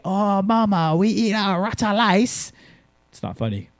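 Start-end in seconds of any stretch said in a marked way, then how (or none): 0.1-2.5 higher, slow mock Asian accent. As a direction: tease mom by copying her accent. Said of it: "So anytime I say".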